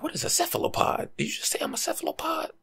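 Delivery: high, startled squeak of offence; as if just insulted in a strange word; mock offended. To someone who used a fancy word, a high startled mock-offence.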